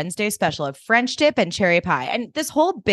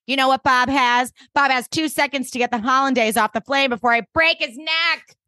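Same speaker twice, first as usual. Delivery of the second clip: raised, fierce chef voice; playful threat, pitched up; mock-threatening Suki; 6 semitones higher than usual. Suki threatening Bob, raised and fierce.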